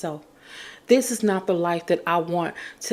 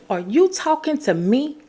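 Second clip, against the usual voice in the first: higher, challenging "Are you talking to me?" with a rising "you"; with attitude; 6 semitones higher than usual. Shown as a demonstration. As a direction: say it from the chest, daring them to answer. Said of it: "with that, um, with your chest".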